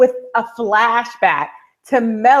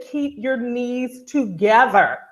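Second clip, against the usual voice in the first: pointed admonishment; slower than usual. Retold or imitated. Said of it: "she said".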